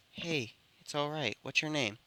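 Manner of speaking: softly reassuring; gentle reassurance. Acted. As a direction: put a scared child at ease, quietly. Comforting a rescued little girl.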